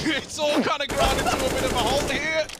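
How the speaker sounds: mock Australian play-by-play; Australian caster accent. Still casting the round in his Australian accent. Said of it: "I love doing accents".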